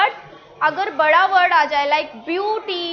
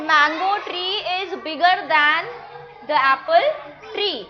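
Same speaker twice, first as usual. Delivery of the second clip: slow model sentence; much slower than usual. Shown as a demonstration. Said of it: "teacher models comparative sentence slowly".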